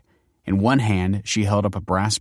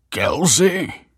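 high, rising question of recognition; surprised greeting; 10 semitones higher, 4 dB louder than usual. A narrator's reading. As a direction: blurt the name in surprise.

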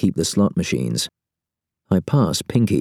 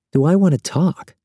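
amused; 11 semitones higher than usual. A narrator's reading. Amused echo, then chuckles.

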